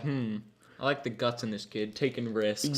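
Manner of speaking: hushed, mildly approving director voice; imitated director. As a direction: muse quietly, weighing up the audition. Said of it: "The director was like".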